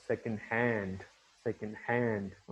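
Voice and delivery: slow, second hand with hand stressed. Shown as a demonstration. Teacher demonstrating compound stress on second hand. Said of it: "हैंड जो है वो क्या है ... primary stress".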